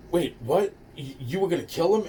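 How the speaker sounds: high-pitched startled disbelief; flipping out. Retold or imitated. Little girl turns on her accomplices, flipping out. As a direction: act out a girl's alarmed double take. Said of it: "she really fucking flipped out".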